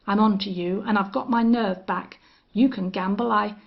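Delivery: worked-up defiance; getting loud and worked up; excited. Acted. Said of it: "He had grown excited".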